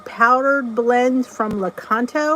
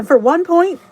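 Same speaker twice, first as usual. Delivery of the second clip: emphatic; 8 semitones higher, 6 dB louder than usual. Real, not acted. Calling out the Weight Watchers points.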